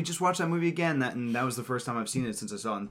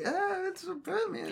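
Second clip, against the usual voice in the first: unimpressed; 6 dB quieter, slower than usual. Retold or imitated. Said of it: "I was just like".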